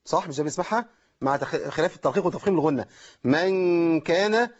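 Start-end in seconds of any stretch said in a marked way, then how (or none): 3.2-4.5 من كان slow, noon merged with nasal; wrong idgham demo. Shown as a demonstration. Teacher repeating the wrong reading for students. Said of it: "طب أنا قلت كده بشكل خطأ".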